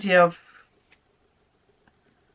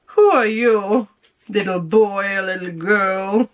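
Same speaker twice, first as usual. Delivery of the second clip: sassy comeback; 4 dB louder than usual. Retold or imitated. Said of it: "but now you're like".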